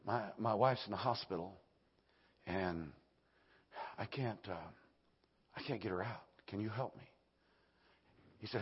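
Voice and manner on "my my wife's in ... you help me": soft, low, halting request; hushed plea. Retold or imitated. New father asking neighbour for help, hushed plea. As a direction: quietly ask for help, hesitating.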